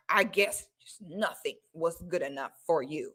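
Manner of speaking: soft, sighing martyr tone; a hint of a wounded mother sulking; dramatic guilt trip. Mother guilt-tripping her child, soft and sulky. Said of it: "She'll hit the dramatic move".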